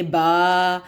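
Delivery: با with the a held longer; با drawn out longer. Shown as a demonstration. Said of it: "تھوڑا سا اور لمبا کریں گے".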